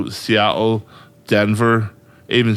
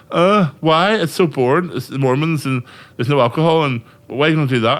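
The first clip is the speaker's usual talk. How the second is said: mocking incredulous friends; 5 semitones higher than usual. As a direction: parrot the doubters, sceptical and whiny. Mocking people who doubt Utah.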